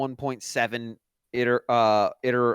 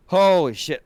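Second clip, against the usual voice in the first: higher and louder burst; excited exclamation; 5 semitones higher, 7 dB louder, slower than usual. Real, not acted. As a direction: blurt it out in real delight. Reacting to Wind Waker.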